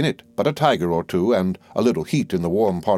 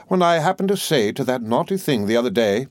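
a hint of a fussy, self-important old lady, pitched higher; lightly voiced old mother-in-law; 4 semitones higher than usual. The old soldier pressing her point on the doctor, lightly voiced. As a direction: play the bossy mother holding forth, higher.

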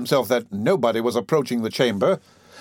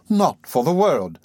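slow, plaintive refusal; distressed refusal; 3 semitones higher, slower than usual. Acted. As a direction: refuse slowly with mild distress. Distressed lady refuses the wine.

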